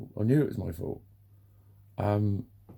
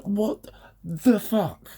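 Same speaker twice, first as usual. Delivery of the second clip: drawn-out, much higher outraged what the fuck; outraged disbelief; 11 semitones higher, 3 dB louder, much slower than usual. Retold or imitated. Retelling the dentist's push-back, slow high disbelief. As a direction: stretch it slowly, shocked and indignant.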